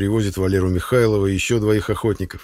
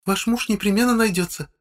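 gentle; 14 semitones higher than usual. A narrator's reading. Nurse Katya gently leading the crying woman away. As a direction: coax her kindly to come.

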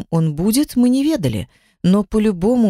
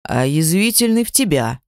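ordinary delivery

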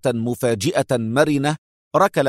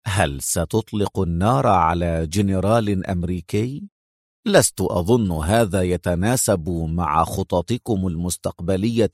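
calm taunt; 4 semitones lower than usual. Acted. Sam calmly taunting Eitan.

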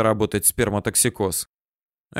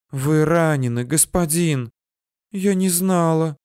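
сочувственно; 5 semitones higher than usual. A narrator's reading. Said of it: "сменилось состраданием".

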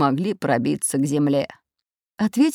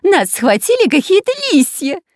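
much higher, louder panicked shout; 12 semitones higher, 7 dB louder than usual. A narrator's reading. Trapped spy shouting to his rescuers, much higher and louder. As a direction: yell it in panic. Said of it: "кричал шпион Дырка".

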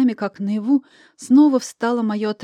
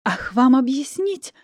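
angry hiss; 4 semitones higher, slower than usual. Acted. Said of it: "гневно зашипела я".

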